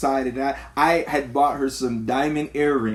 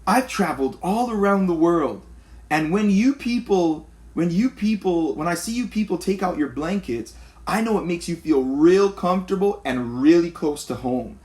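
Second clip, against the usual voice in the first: higher mock voice of a condescending lady; imitating the lady; 5 semitones higher than usual. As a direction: play the clueless lady, pitched up. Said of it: "She's like".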